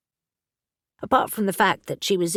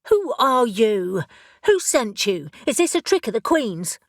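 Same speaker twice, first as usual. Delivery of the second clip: suspicious questions; 2 semitones higher, 3 dB louder than usual. Acted. Elle suspicious of raven.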